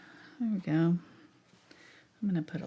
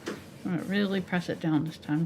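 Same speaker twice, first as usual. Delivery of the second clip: talking around a paintbrush in teeth; mouth stick; 4 dB louder than usual. Real, not acted. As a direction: brush held in mouth. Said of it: "I sound funny 'cause I'm holding my brush in my mouth".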